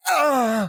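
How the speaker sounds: mock groan of a worn-out van; cartoon van groan. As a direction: groan like cartoon wheels giving out. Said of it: "its wheels would go like".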